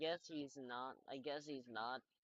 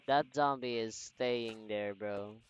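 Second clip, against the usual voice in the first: excited taunt; 10 dB louder than usual. Real, not acted. Loud taunting.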